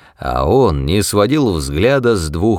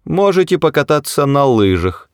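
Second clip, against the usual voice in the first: high, snide mouse suggestion; 7 semitones higher than usual. A narrator's reading. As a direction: offer it with a sting. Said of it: "язвительно предложил Бенджи".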